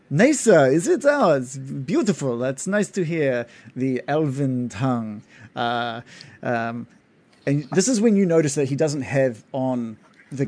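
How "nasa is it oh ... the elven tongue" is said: a friendly half-elf greeting, lightly played; Gindar's voice. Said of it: "and he says".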